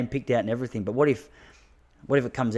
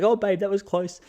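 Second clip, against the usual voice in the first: higher startled mock wife voice; imitating wife; 10 semitones higher, 3 dB louder than usual. Wife on the bike to her husband, higher startled voice. Wife reacting to branch flick.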